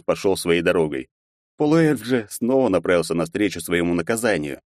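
usual speaking voice

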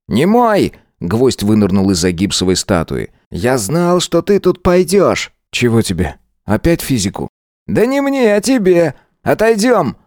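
high brash schoolboy voice; cocky teen Gvozd. A narrator's reading. Schoolboy bully accosting Nik in the yard, cocky. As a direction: swagger up and call him out.

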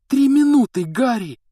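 high, loud urgent warning; urgent shout. Acted. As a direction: call out the time urgently. (громкий тревожный окрик)

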